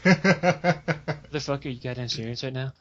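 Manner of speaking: half-laughing incredulous retort; laughing disbelief. Retold or imitated. Merchant laughing at the guild leader, slow disbelief.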